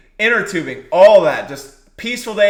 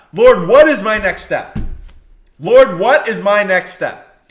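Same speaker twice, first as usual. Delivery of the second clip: earnest prayer; 4 dB louder, slower than usual. Acted. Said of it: "you think".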